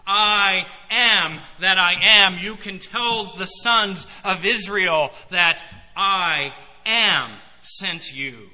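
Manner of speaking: slow, loud, solemn voice of God; God speaking to Moses. Acted. God naming himself to Moses, slow thundering solemnity. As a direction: boom it out slowly from the mountain.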